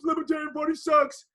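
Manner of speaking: high, loud sneering complaint; bitter quitter. Retold or imitated. David the defeated candidate quitting the party, sneering. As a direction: spit it out as you quit. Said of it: "David goes".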